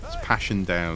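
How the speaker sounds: put-on lightly done Ballymena accent; hint of Ballymena in the vowels. Streamer telling a Ballymena rain joke, lightly put-on Ballymena accent. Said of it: "the accent is, has a very specific, uh, sound".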